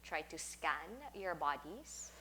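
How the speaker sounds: guided meditation. Acted. Teacher settles class lying down for a sound bath, guided meditation. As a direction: talk them gently into settling down, leaving space between phrases.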